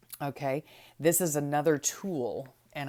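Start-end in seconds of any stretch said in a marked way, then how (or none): 1.0-2.5 TOOL stressed, pushed a bit louder. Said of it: "I emphasize the word tool".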